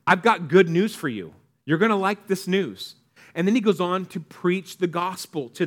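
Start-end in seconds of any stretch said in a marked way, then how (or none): 0.1-3.0 casual and eager, a bit louder; relaxed modern angel sharing good news; casual everyday. Shown as a demonstration. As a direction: say it like you'd tell a friend. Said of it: "but it's like".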